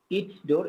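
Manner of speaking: "its" ending in a clear s sound; hissed S in its. Shown as a demonstration. Teacher showing the one exception, "its" with an S sound. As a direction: say "its" with an unvoiced S, never Z. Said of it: "এটা শুধু সিনের উচ্চারণ হবে".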